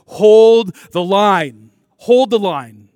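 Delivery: loud, drawn-out battle command; high, long commander's shout; Maximus rallying his soldiers. Retold or imitated. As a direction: call it down the line to the troops. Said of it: "tells his soldiers before going into battle".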